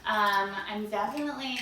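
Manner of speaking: talking through fake fangs; lisping round plastic fangs; wearing vampire fangs. Real, not acted. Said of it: "I might need to put my fangs on for this".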